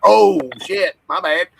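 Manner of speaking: high, laughing oh shit; laughing apology. Retold or imitated. Retold apology while laughing.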